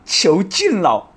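slow stretched goal call. Pretend. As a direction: drag out the goal cry.

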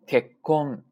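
結婚 as kek-kon, firm silent beat between; sokuon pause demo. Shown as a demonstration. Teacher returns to the correct way, held stop. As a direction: catch ke short, then release a loud kon in 結婚. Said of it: "这样的啊".

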